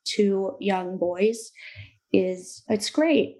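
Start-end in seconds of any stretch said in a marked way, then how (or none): 2.7-3.4 dry, sarcastic praise. Real, not acted. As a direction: say it meaning the opposite.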